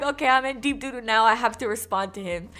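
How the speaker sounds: loud, flustered inner panic; retold panic. Realizing she must answer him, loud and flustered. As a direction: rush it out, flustered.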